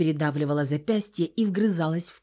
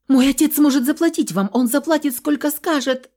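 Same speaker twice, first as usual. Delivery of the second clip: high, loud begging in a rush; desperate pleading; 8 semitones higher, 5 dB louder than usual. A narrator's reading. Captive girl offering her father's money, desperate. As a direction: plead as if your life depends on it.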